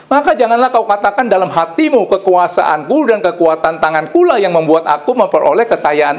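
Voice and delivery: high, insistent preaching voice; emphatic preaching. Acted. Preacher urging the congregation to credit God's kindness, emphatic and high. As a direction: read scripture out and press it home, pitched high. Raised preaching and scripture reading.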